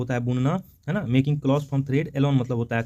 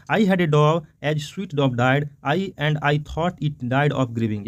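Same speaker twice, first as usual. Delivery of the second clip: poem reading; much slower than usual. Shown as a demonstration. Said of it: "एक बार हम लोग इसको फिर से पढ़ते हैं".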